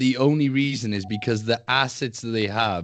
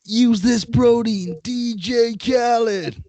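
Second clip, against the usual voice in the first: mock ad read; 9 semitones higher, 5 dB louder, slower than usual.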